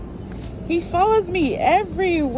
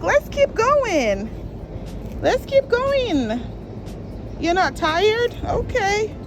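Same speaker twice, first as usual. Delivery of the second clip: slow higher voice for the puppy; voicing the dog; 4 semitones higher, slower than usual. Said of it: "he comes to me like".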